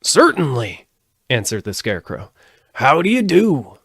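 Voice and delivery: high, loud friendly straw man; a cheerful scarecrow greeting. A narrator's reading. Scarecrow character voice.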